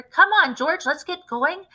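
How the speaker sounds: put-on rally the boy to go; eager call. A narrator's reading. Eager father rushes son.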